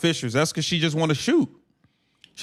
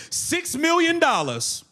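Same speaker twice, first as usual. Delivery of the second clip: high, slow and disbelieving; mocking disbelief at the salary; incredulous; 10 semitones higher, slower than usual. Real, not acted. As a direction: stretch it out like you can't believe the price tag. Mocking a struggling player's salary.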